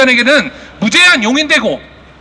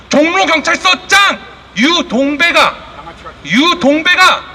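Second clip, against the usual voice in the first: slow shout; 3 semitones higher, slower than usual. Real, not acted. Accusing police chief at rally.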